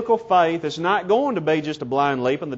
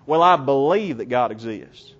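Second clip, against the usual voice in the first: lower-pitched, played-down reply; minimized response; 5 semitones lower than usual. Imitating people avoiding a strong line, downplayed reply. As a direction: imitate someone hedging their answer. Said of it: "they minimize their response in this way".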